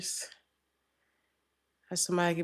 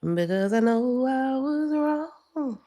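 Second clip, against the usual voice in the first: pleading apology; 8 semitones higher, slower than usual. Retold or imitated. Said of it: "Somebody could be apologizing to you".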